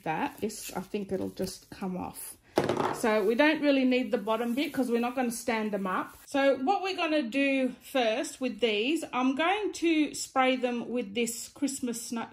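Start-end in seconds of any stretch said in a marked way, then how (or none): 6.3-12.3 lisping through a dental aligner. Real, not acted. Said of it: "Sorry about my lisp".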